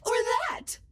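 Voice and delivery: different voice. Shown as a demonstration. AI assistant showing off its voices, high-pitched. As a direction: jump up high. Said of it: "I can sound like any".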